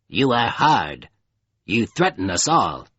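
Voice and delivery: cold, dusky creature. A narrator's reading. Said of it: "a cold, dusky voice".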